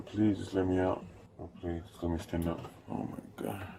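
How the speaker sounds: pained, strained pleading through cramps; cramping up. Real, not acted. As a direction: plead while a cramp grips you. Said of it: "I'm cramping up so bad".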